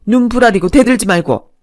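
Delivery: mother-in-law berating her son's wife, loud and scornful; scolding mother-in-law. Acted.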